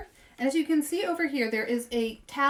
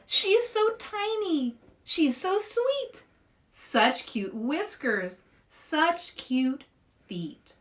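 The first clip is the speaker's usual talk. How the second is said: put-on gushing kids; 4 semitones higher, slower than usual. Children gushing over the hamster.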